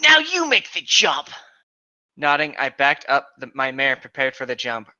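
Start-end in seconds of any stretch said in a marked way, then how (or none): 0.1-1.3 high, loud call to the other rider; Link calling out. Acted. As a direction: belt out Link's command across the fence. Link's line, read aloud in voice.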